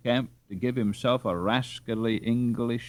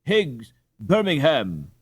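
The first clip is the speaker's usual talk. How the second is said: joyful panting; 7 semitones higher than usual. Acted. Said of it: "panted Hans, radiant with sudden joy".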